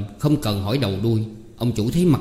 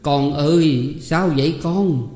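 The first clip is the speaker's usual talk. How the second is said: mother crying; 4 semitones higher, slower than usual. Acted. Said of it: "khóc nức nở".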